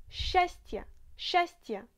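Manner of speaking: счастье said simply as shastye, no extra consonants; счастье pronounced like shastye; simple pronunciation. Shown as a demonstration. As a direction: say счастье easily, swallowing the cluster. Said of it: "mais on ne les prononce pas toutes".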